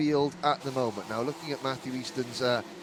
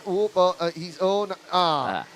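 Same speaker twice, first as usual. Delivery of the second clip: dismayed; 4 semitones higher, 6 dB louder than usual. Real, not acted. Driver goes off the track.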